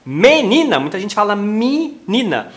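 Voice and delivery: "menina" said as minina; "menina" with I in the first syllable. Shown as a demonstration. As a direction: raise the E of "menina" to an I. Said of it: "alçou a vogal do e pro i".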